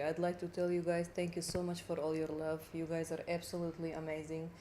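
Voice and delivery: low, soft-spoken Russian accent; quiet thank-you in a Russian accent. Shown as a demonstration. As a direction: speak English with a Russian accent. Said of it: "That's the Russian one".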